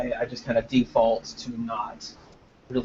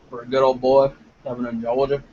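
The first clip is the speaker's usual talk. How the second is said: louder, put-on southern accent; mock southern accent; 5 dB louder than usual. Southerner joking about sounding northern, in a mock southern accent. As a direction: play up a good-old-boy southern accent.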